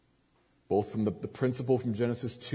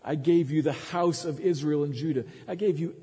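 higher and louder, faster at the top; building fervour; 7 semitones higher, 3 dB louder, faster than usual. Acted. Preacher as God telling David everything he gave, rising fervour. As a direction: swell toward the climax. God's grace building to a climax.

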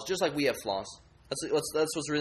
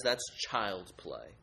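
lust idol. Acted. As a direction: purr it like a temptress. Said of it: "she says".

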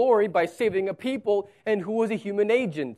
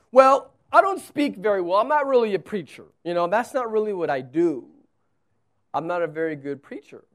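Moses objecting; 6 dB louder than usual. Acted. Moses pleading he can't speak well, excusing himself. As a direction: make excuses, tumbling out. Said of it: "he says".

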